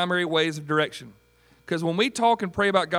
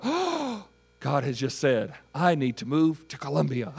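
mock awe. Preacher mimicking someone who thinks God just spoke, awestruck. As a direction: play an over-the-top stunned revelation. Acts out getting a dramatic revelation.

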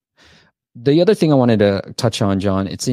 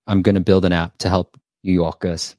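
put-on New York accent; 3 semitones lower than usual. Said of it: "You don't like my New York accent?".

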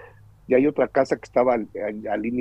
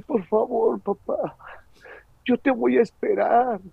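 much higher, whispered papá then pleading; child pleading; 9 semitones higher than usual. Retold or imitated. Son promising to wait for his father, high and tearful. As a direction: promise like a crying boy. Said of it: "Yo estaba llorando".

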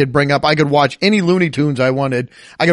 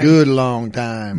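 slow, low drawn-out mountain man; gruff mountain man; 4 semitones lower, much slower than usual. Retold or imitated. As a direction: drag it out like a gruff old miner. Echoes the slogan in a voice.

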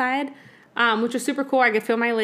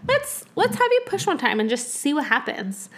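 casual, reassuring nurse; 5 semitones higher than usual. Retold or imitated. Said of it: "it didn't seem intimidating".

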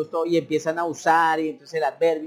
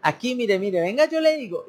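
higher, eager helper voice; helpful local; 4 semitones higher than usual. Retold or imitated. Local eagerly helping a gringo find the bathroom, higher. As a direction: fuss over the lost foreigner, guiding him. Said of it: "Entonces dices".

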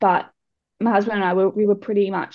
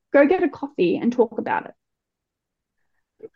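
mimicking the doctor's breezy suggestion, higher and slow; mock casual doctor; 5 semitones higher, slower than usual. Mother mimicking the doctor's offhand advice, slow and breezy. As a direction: make it sound offhand, like it's no big deal.

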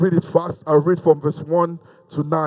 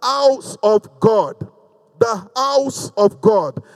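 emphatic preaching; 4 semitones higher than usual. Real, not acted.

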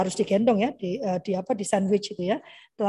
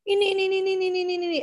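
put-on higher, quick childish pointing; eager child; 8 semitones higher, much faster than usual. Children answering mom what to buy, eager high kid voice. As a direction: rattle off like a kid grabbing at everything.

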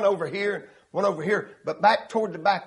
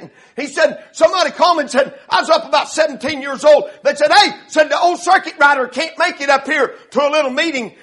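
raised, forceful pulpit narration; preaching storytelling; 7 semitones higher, 7 dB louder than usual. Retold or imitated. Preacher retells an old man's call to exhort, raised preaching voice. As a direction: push the story out strongly.

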